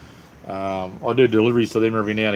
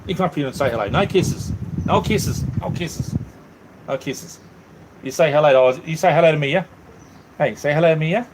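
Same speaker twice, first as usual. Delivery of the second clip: talking to the dogs; 7 semitones higher than usual. Real, not acted. Man coaxes his dogs Angel and Mia to say hello, high cooing baby talk. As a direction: coo at the puppies like babies.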